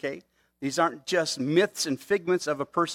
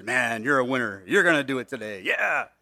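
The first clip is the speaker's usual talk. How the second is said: mock self-hyping, pushed a little; mirror pep talk; 3 semitones lower than usual. Someone to the morning mirror, mock ego-pumping. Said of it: "look in the mirror and say".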